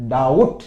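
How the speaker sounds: डाउट said as dout with no b sound; correct pronunciation. Shown as a demonstration. Teacher to students, डाउट said cleanly with silent b. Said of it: "बी इसमें silent रहता है".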